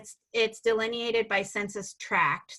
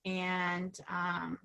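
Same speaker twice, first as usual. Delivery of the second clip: breaking up; 8 dB quieter than usual. Real, not acted. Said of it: "you're breaking up a bit again".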